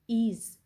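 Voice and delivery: "ease" set apart after a pause for emphasis; stress on ease. Shown as a demonstration. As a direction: hold "ease" as the stressed syllable. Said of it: "So the emphasis is on".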